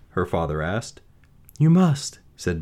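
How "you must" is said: put-on firm young woman. Beauty voice.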